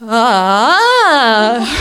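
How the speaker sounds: loud, laughing half-hearted "ah"; a cry for help that collapses into a laugh; badly faked shout with a laugh; awkward mock cry for help. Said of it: "een beetje vreemd, awkward".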